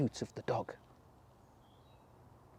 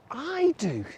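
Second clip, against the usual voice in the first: squeaky mouse voice; 11 semitones higher than usual. A narrator's reading.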